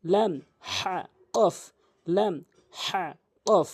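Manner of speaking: slow, drawn-out "লাম, হা, কফ"; each of "লাম, হা, কফ" separate and fully articulated; model "লাম, হা, কফ". Shown as a demonstration. Teacher models letters for copying, slow "লাম, হা, কফ". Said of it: "এভাবে উচ্চারণ করবেন".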